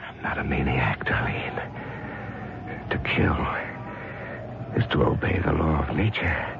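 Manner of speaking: menacing murmur. Acted. Killer explaining himself to victim.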